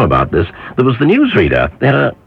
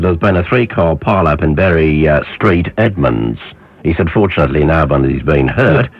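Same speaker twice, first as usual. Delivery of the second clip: lightly imitated Australian newsreader accent; a mild Australian twang, retold. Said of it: "you've got to do it in the Australian accent".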